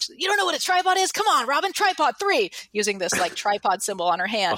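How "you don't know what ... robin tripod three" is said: higher, incredulous scolding mom; exasperated mom. Retold or imitated. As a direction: mom in disbelief spelling out the obvious. Mom exasperated at her child.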